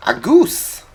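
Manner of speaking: high, loud excited cry; excited shout. Real, not acted. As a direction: yelp it out in sudden delight. Sudden excited outburst at goose.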